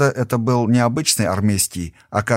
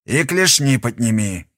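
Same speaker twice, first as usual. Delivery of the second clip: smoker's rasp. Acted. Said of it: "сиплым прокуренным голосом сказал он".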